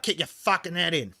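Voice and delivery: Bogan Australian with the H dropped from "head"; Bogan accent. Shown as a demonstration. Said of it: "it's more like".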